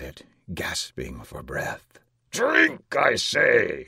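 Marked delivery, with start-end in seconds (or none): 2.3-3.9 high, loud tyrant's command; shouted order. A narrator's reading. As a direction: bellow the order at the jester. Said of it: "shouted the monster".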